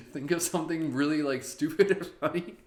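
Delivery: high, loud words through laughter; laughing while speaking. Real, not acted. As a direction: talk between laughs.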